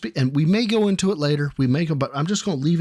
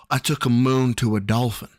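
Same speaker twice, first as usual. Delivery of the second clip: Joe Biden; 4 semitones lower than usual. Acted. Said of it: "Mister Biden?".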